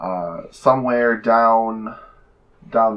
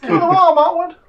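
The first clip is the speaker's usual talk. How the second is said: high, loud sinister squeak; menacing little rat; creepy rat voice; 7 dB louder than usual. Acted. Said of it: "Okay, Pennywise".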